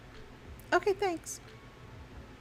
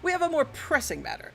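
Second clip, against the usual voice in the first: high voice; 8 semitones higher than usual. Acted. NPC voiced higher.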